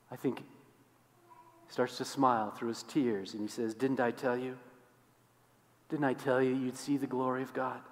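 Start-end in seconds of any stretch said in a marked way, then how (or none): 3.7-7.8 gentle reply. Acted. Jesus gently answers.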